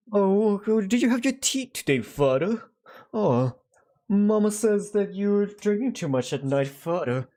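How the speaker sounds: put-on high, prim English child voice; English-accented child. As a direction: play a little English child addressing Father. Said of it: "say father in, like, an English accent".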